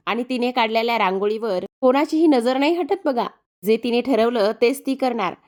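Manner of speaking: doting mother boasting of her daughter; proud praise. Acted. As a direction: praise her with emphatic, lilting pride. Lakshmi सावित्रीचं कौतुक करत असतात.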